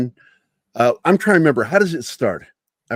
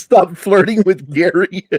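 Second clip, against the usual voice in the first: imitating girlfriend; 6 semitones higher than usual. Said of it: "She says".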